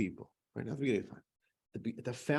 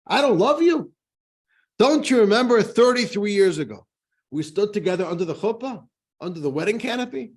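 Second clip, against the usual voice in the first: high, loud, wounded protest; an outraged husband who can't believe his ears; indignant, hurt and loud; deeply insulted; 7 semitones higher, 6 dB louder than usual. Acted. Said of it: "the husband gets so deeply insulted".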